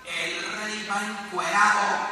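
loud, slow, blurting it out; child's shout. Retold or imitated. A five-year-old shouts at the passing naked king, loud blurt. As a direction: call out the plain truth. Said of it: "el niño grita".

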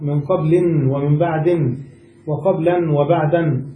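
"من قبل ومن بعد" and "وقبلا وبعدا" with a sounded n ending; nunazione finale. Shown as a demonstration. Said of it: "أعربت ونونت".

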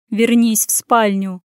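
slow, unbending command; unyielding. Acted. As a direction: refuse to budge, calmly. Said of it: "Голос был непреклонен".

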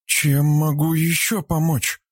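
ask, caught off guard; surprised. Acted. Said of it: "удивлённо спросила".

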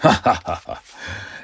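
gloating villain's laugh. Acted. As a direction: laugh mockingly at your captives. Schurke verhöhnt seine Gefangenen. (hämisches Schurkenlachen)

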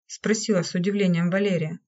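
ordinary delivery, nothing marked

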